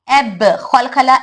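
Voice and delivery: एब, खलखला slowly, the ब bouncing with an extra echo; qalqala bounce. Shown as a demonstration. Teacher showing students the echo on एब. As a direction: release the stop with an echo. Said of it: "extra voice".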